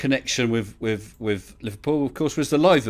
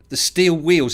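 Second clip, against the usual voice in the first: put-on Scouse accent; 4 semitones higher, 5 dB louder, slower than usual. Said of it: "I'm gonna try the accent".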